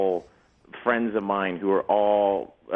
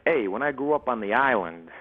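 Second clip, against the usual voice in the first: put-on New York accent. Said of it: "like, a New York accent".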